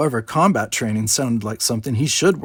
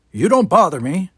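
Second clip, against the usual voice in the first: put-on grumpy old man; 7 semitones higher, 7 dB louder than usual.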